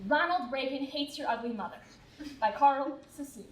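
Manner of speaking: measured, even narrator read; formal show introduction. A narrator's reading. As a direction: introduce the story like a documentary.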